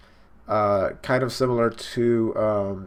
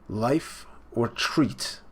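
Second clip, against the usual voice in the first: quieter, very slow life or treat; softer slow repeat; 4 dB quieter, much slower than usual. Retold or imitated. Viewer repeating Big Mom's threat, a softer slow echo. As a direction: murmur life or treat back slowly.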